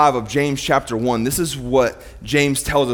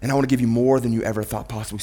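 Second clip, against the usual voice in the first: inviting God voice; 3 semitones lower, 3 dB quieter than usual. Retold or imitated. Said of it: "He actually says".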